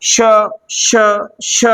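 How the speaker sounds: श drawn out with air rushing out; hissing sh. Shown as a demonstration. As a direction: let श hiss so the air is heard. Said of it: "बाहर क्या निकल रही है".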